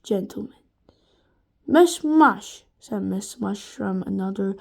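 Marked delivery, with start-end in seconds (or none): 1.7-2.6 friendly teacher voice. A narrator's reading. Teacher behind door.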